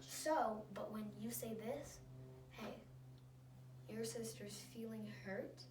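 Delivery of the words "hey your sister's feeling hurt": gentle, measured request, no sternness; calm. Shown as a demonstration. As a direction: ask calmly, as the kinder alternative. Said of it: "this person's calm".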